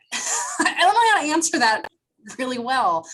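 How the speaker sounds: laughs it off, a bit stumped; embarrassed laugh before answering. Real, not acted. Stumped by a hard question.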